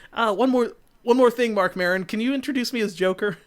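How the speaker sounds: a light put-on Joker ask; mock Joker. Joker voiced asking Maron.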